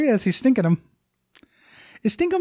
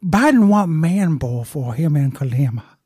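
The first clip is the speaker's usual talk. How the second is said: Joe Biden voice; 4 dB louder than usual. Pretend. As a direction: ramble like a confused president. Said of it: "what do Joe Biden sound?".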